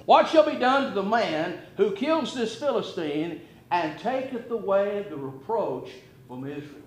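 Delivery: hushed, thoughtful question as David; quiet wondering. Shown as a demonstration. Preacher voicing David quietly asking the soldiers, hushed and wondering. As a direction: ask it softly, half to yourself, wondering. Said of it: "notice how he says this".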